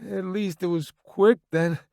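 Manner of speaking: a touch of gratitude; grateful. A narrator's reading. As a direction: take small comfort in grim news. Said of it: "sounding grateful".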